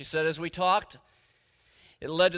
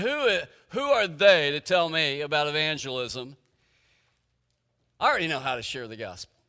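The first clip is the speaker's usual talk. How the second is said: a proud, huffy retort to himself, fast at the end; indignant inner thought; 6 dB louder than usual. Retold or imitated. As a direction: scoff as if no one can teach you. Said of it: "I thought".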